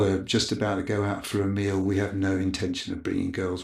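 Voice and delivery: put-on calm the guards down in a polite English accent; posh English accent. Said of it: "in his best English accent".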